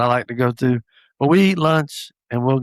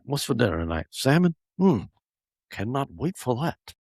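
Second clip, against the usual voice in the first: sarcastic eagerness; 5 dB quieter than usual. Pretend. Dad mocking fake excitement for salmon night, soft sarcastic delight. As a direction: fake delight you'd never really feel. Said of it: "No, never said that".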